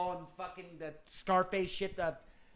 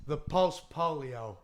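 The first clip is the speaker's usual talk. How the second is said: Robert Anton Wilson impression; 4 semitones lower, 5 dB louder than usual. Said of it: "do the slow idle pan".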